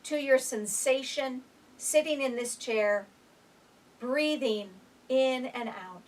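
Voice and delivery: gentle mindful guidance; guided meditation. Acted. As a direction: ease them into the present moment. Opens a guided breathing moment.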